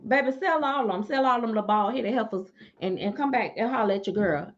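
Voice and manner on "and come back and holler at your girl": ordinary talk, nothing marked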